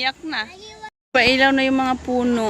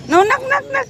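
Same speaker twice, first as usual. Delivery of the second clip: playful sing-song; 9 semitones higher, 5 dB louder, faster than usual. Real, not acted. Mother playing with baby.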